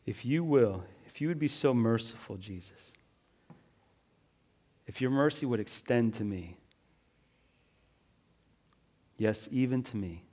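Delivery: soft plea. Acted. Pastor voices the plea softly.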